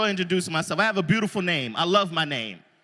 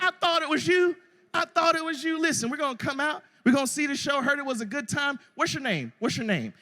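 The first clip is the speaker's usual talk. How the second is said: excited cowboy; 5 semitones higher than usual. Retold or imitated. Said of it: "He was like".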